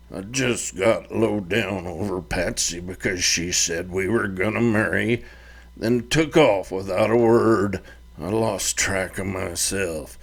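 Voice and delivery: a hint of a contrite son; sheepish apology. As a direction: hang your head and mumble sorry. Son explains his drinking.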